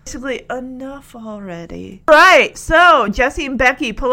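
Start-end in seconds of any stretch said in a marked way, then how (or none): 0.0-2.0 fed up. Retold or imitated. People waiting in the pews, fed up. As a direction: grumble it quietly, worn out. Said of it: "they're getting, like".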